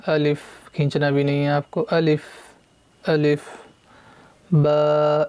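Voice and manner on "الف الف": الف said softly, without stretching; soft alif. Shown as a demonstration. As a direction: say الف gently and short. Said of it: "اس کو بہت نرمی سے پڑھنا ہے". (الف نرمی سے، بغیر کھینچے)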